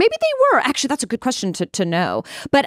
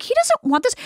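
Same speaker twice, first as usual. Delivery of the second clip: mock exasperated self; 13 semitones higher than usual. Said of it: "I was like".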